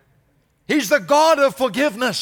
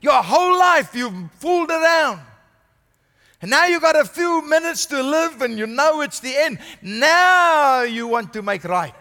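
a sneering dismissal of a dying thief; dismissive scoff; 2 semitones lower than usual. Retold or imitated. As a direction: wave him off with scorn. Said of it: "Jesus could have said".

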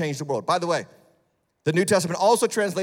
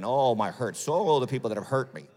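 mock moaning; 5 semitones lower than usual.

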